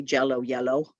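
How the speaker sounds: jello with tongue up, yellow with tongue down; contrasting J and Y. Shown as a demonstration. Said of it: "the Y and the J".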